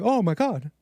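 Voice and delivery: mock scandalised exclamation; a touch of feigned horror; pearl-clutching. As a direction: lightly imitate a shocked pearl-clutcher. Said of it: "is that pearl clutching?".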